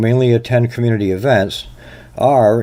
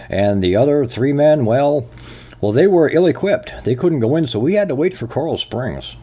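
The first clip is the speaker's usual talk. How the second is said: mock sheriff excuse; 4 semitones higher than usual. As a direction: play the sheriff stammering excuses with raised voice. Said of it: "you'd have your sheriff stand up and say".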